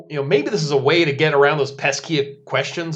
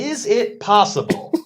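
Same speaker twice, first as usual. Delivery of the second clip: slow, higher-pitched mock mystery narrator; documentary narrator parody; 5 semitones higher, slower than usual. Co-host parodies an Ancient Aliens episode, mock narrator voice. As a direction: pose it like a sensational TV narrator. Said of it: "on this episode of Ancient Aliens".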